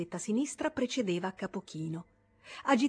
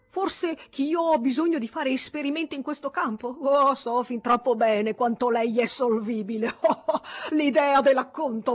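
loud, laughing scorn; mocking laughter; 6 semitones higher, 9 dB louder than usual. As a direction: sneer through laughter. (scherno ridendo, a voce alta)

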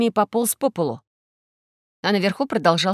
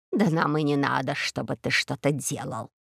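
soft willow tree answering Karlo; rustling tree; 6 semitones lower, 6 dB quieter than usual. A narrator's reading. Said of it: "прошуршало дерево-ивушка".

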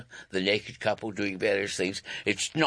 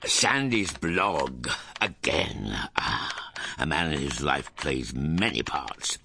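blog narration; 2 semitones lower than usual. Acted. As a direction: narrate like a self-important diary entry.

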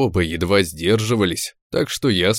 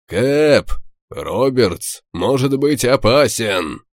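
high urgent warning shout; combat callout; 3 semitones higher, slower than usual. Acted. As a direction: call out the danger to the captain. Warning shout mid-battle.

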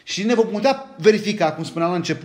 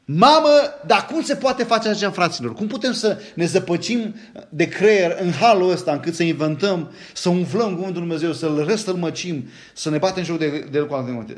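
mock-indignant cry; exasperated outburst. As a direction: throw up your hands at the nonsense, half laughing. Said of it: "Am zice".

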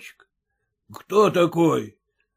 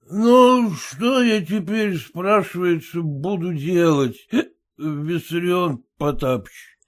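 put-on slurring drunk clerk, in a drunk voice; 3 semitones higher than usual. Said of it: "совсем уж пьяным голосом говорит чиновник".

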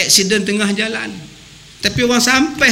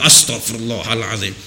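exasperated teacher; 11 semitones lower than usual. Retold or imitated. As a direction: groan it like a fed-up guru. Teacher sighs again.

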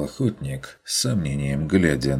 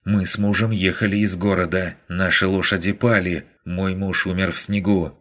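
higher, fast pleading woman's voice; desperate woman outside; 4 semitones higher than usual. Acted. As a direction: plead and threaten through the door, fast. Freezing woman pleads angrily outside. (отчаянная женщина за дверью, быстро и выше)

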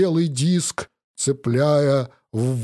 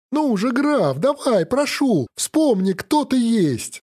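pleading; 8 semitones higher than usual. Acted. Hero begging the count.

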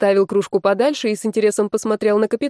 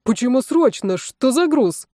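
from another room; 5 semitones higher than usual. Acted. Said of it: "раздался чей-то голос из коридора".

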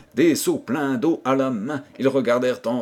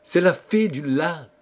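lightly smiling, higher reveal; smiling reply; 5 semitones higher than usual. A narrator's reading. Princess revealing who spoke to them, smiling. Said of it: "dit à son tour Fleur d'Amandier en souriant".

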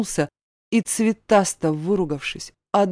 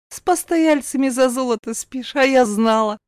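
higher, biting jab; caustic; 6 semitones higher, 3 dB louder than usual. Acted. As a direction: needle her spitefully. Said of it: "едко добавила".

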